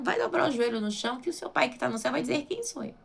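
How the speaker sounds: ordinary talk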